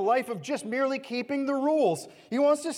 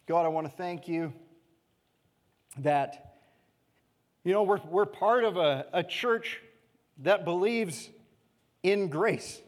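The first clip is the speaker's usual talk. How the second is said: prayer; 3 semitones lower than usual. Real, not acted. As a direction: pray aloud for the church, reverently. Pastor leads closing prayer.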